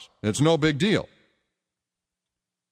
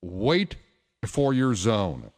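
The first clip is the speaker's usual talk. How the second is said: slow, lower mock announcement with pauses; gate agent announcement; 5 semitones lower, much slower than usual. Delta agent to parents wanting to board first, slow, firm mock announcement. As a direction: imitate an agent laying down the rule, word by word. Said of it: "comes on the P A and says".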